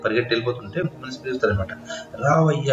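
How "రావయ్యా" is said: a mock call after a runner; light mock shout. Shown as a demonstration. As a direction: shout a name after someone leaving. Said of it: "అనేసి గట్టిగా అరుస్తాడు".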